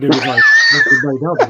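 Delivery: chuckling while admitting they made up; amused laughing recollection. Real, not acted. Recalling the fallout, laughing.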